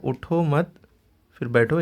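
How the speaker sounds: "उठो मत" drawn out slowly, a break, then "फिर बैठो"; pause after मत. Shown as a demonstration. Teacher explaining it means stay seated, pause after मत. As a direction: hold मत, stop, then give बैठो. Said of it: "बैठे रहो, उठो नहीं".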